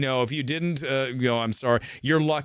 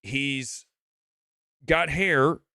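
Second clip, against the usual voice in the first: mock haters; slower than usual. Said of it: "they go".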